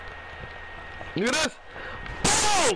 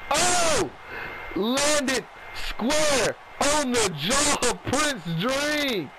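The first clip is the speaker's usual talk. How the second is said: excited shout; 8 semitones higher, much slower than usual. Real, not acted. Knee lands on the jaw.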